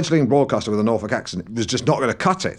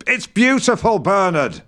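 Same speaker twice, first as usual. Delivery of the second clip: high, insistent outburst; exasperated correction; 8 semitones higher, slower than usual. Acted. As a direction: lose patience correcting his pronunciation. Exasperated correcting of Bernard's pronunciation.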